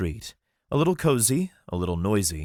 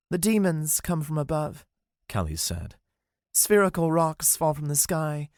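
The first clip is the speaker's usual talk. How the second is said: higher, serious warning; lightly voiced Callie, grave; 9 semitones higher than usual. Callie warning the group about the demons. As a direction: warn them of the danger.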